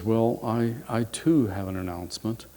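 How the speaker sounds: acting a bashful daughter, with a small stumble; shy. Youngest daughter to her mother at dinner, shyly. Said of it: "she's really shy about mentioning this".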